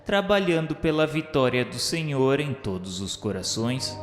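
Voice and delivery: ordinary delivery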